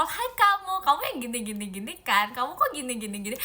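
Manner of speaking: mock scolding. Imitating herself scolding a viewer on a video call, mock nagging. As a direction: play at scolding the viewer, half-hearted. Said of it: "takut diomelin".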